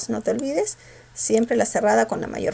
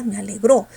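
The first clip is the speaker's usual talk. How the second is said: "alegró" with the weight on "gró"; firm end-stressed "a-le-GRÓ"; 2 semitones lower than usual. Shown as a demonstration. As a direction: push the last syllable of "alegró". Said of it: "No, me alegró".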